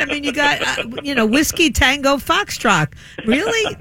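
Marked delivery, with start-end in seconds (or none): 3.3-3.8 a high, rising really; stunned, mocking disbelief; incredulous. Real, not acted. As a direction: pitch it way up in disbelief. Disbelief at headline.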